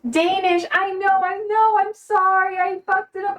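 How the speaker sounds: high-pitched embarrassed apology; flustered apology. Real, not acted.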